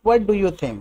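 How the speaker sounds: slow, with a long pause between the questions; slow teacher demo; broken into two slow parts. Shown as a demonstration. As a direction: break it in two, slowly. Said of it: "तो तोड़ के बोल सकते हैं".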